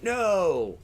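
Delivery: lightly voiced cat refusing a kiss; voicing the cat. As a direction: put words in the cat's mouth. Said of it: "she's like".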